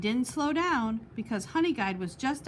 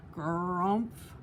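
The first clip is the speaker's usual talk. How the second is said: hiccup grunt; 3 semitones lower than usual. A narrator's reading. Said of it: "Badger roared out the largest, loudest hiccup".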